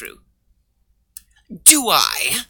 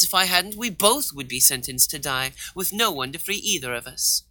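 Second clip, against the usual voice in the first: ordinary talk, nothing marked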